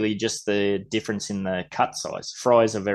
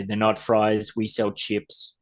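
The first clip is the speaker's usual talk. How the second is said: slow, dry put-down; sarcastic employee; slower than usual. Retold or imitated. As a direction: correct him with mock disdain. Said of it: "some of the sarcastic employees will say".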